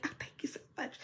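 fake sweet thanks. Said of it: "They would smile in your face".

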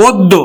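অদ্য said as oddo, o sound then a doubled d; teacher models অদ্য with a held double d; pronounce it right. Shown as a demonstration. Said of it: "দ ব্যঞ্জনটা দুইবার উচ্চারিত হবে".

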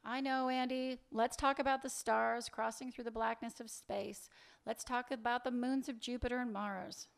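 mock-earnest suggestion, evenly pitched; sarcastic. Woman steering her lover off the subject, sarcastic. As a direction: pretend to change the subject, mocking him. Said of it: "You're being sarcastic".

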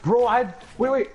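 excited. Real, not acted. Frustrated gamer yelling about damage.

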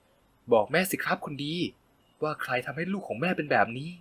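tender mother. A narrator's reading. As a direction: soothe the hurt boy softly. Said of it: "ลูบหัวอย่างอ่อนโยน".

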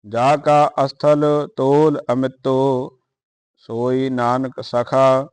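measured, chanted Gurbani reading; steady devotional recitation; scripture recitation. Acted.

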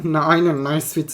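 slow, drawn-out mocking repeat of a teammate's praise; a slow sneering "aynen nice fit"; sarcastic echo. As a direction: throw the praise back, dripping with sarcasm. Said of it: "diyor adam".

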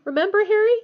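high, loud, plaintive appeal; miserable. A narrator's reading. Ron appealing to Harry about Scabbers, miserable. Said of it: "Ron said miserably".

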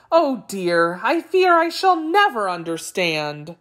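mildly befuddled jackal, pitch rising and falling; confused jackal. Acted. Jackal mixing up tiger, Brahmin and cage, lightly voiced confusion. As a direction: think aloud in mild bewilderment.

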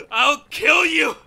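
angry threat. Acted. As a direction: spit out the threat at him. Captive threatens the alien.

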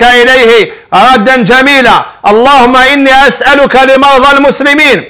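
earnest supplication for the sick, rising in fervor; fervent prayer. Real, not acted. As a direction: pray aloud for every sick person, pleading. (دعاء بخشوع وتضرع)

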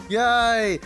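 high, drawn-out little yay; happy cheer. Real, not acted. Streamer celebrates during the game, happy high cheer.

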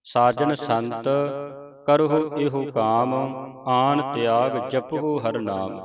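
measured Gurbani recitation with drawn-out vowels; scripture recitation. Acted. Teacher reciting Gurbani for students to follow, measured recitation. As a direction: recite each phrase clearly, pausing between phrases.

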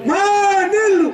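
loud high call on the word నీళ్లు; slogan shout. Real, not acted. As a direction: shout నీళ్లు as a rally cry.

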